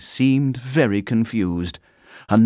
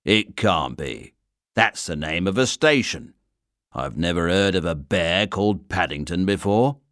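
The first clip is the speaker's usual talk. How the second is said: stern inspector; 2 semitones lower than usual. Acted. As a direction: play a weary station inspector. Inspector in disbelief.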